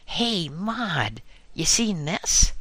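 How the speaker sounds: yelled back. A narrator's reading. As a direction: yell it across the gardens. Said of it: "yelled back Martha".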